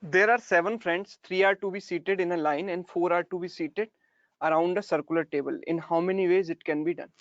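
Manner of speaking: slow, deliberate dictation pace; dictating a question. Shown as a demonstration. Teacher dictating the question to students, slow and deliberate. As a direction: spell out the problem slowly for notes. Reading the question aloud slowly.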